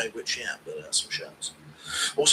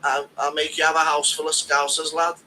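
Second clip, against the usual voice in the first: Paddy impression. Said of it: "Paddy selling Guru beanies".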